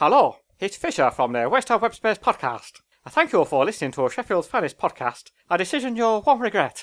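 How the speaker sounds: attempted accent that comes off as Chinese. Showing off an accent someone recently taught them: accent that comes off chinese. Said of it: "That's going to be Chinese".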